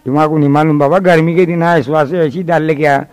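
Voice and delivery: put-on old tutor. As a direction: mutter back at the brat.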